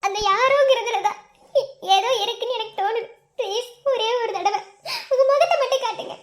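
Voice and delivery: urgent, sob-tinged begging; tearful pleading. Acted. Admirer begging for one look, tearful. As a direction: plead through tears for one last favour. Begging once more to see the face.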